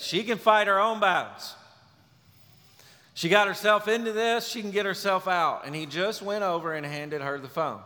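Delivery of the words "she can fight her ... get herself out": a hint of a dismissive husband. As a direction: wave her problem away, a touch raised. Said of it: "he said".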